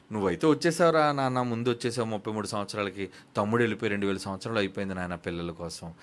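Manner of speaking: lightly voiced loving father talking to his son; fatherly voice. Father speaks tenderly to his son. (మృదువైన తండ్రి స్వరం, కొంచెం తక్కువ స్వరంలో)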